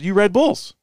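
lightly imitating a British bloke; English accent. Telling a friend about a bar guy, mild English accent. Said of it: "In an English accent".

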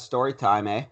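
put-on Canadian accent. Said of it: "that was like a Canadian accent".

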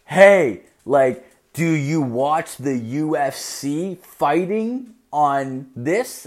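slow, loud and over-careful; slowed-down words. Retold or imitated. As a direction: talk as if to a little kid. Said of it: "I would slow down my words".

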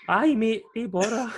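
high, loud, overconfident "aye mate"; cocky eager agreement. Retold or imitated. To his mate about the half-time shot, a high cocky boast. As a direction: brag it like it's nothing.

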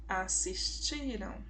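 "Assistiram" slowly, with the TI drawn out; stress on penultimate syllable. Shown as a demonstration. Teacher showing the strongest syllable, stressed and stretched "ti" in "Assistiram". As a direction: lean long on the "ti" in "Assistiram". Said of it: "A sílaba mais forte é a penúltima".

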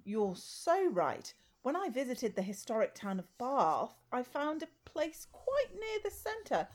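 posh snob voice. Acted. Sketch character, posh snob.

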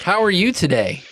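bright, lifted voice for a sweet hello; sugary high greeting. Acted. Girl greeting Mary, sweetly high.

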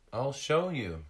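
high, loud small seal voice; little seal. Acted. Seal answering Tag about food, high eager voice. Rescued seal's high character voice.

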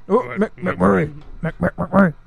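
lightly mimicked stuttering character; a hint of a TV character's stutter; McMurray. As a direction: stammer the name in a slight impersonation. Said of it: "they start talking like McMurray".

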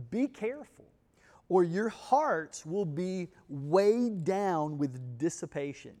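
slow, weighty Bible reading; scripture reading. Acted. Pastor reading Jesus' warning to the congregation, slow and solemn. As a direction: read the verse out deliberately, drawing out key words.

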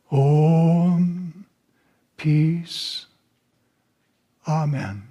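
measured, reverent prayer with long pauses; devotional prayer. Acted. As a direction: address God slowly and devoutly, line by line. Leads an opening prayer.

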